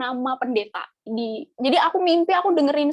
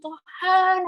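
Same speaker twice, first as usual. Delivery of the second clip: raised, drawn-out call to God; retold tearful cry; 5 semitones higher than usual. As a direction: imitate crying out in prayer. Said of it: "aku nangis di kamar".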